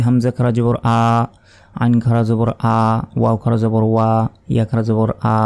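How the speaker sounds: every letter ending in the same plain আ; demonstrating the wrong way, all alike; common mistake. Shown as a demonstration. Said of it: "সবগুলো আ আ এরকমভাবে উচ্চারণ করি অনেকে, এগুলো ভুল".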